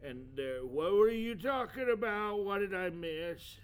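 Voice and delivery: high, loud cheery voice; high put-on voice. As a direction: bounce in with the drinks, high and loud. Returning with drinks, put-on voice.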